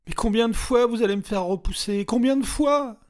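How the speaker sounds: high, loud despairing demand; anguished shout. A narrator's reading. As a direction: throw the question at them.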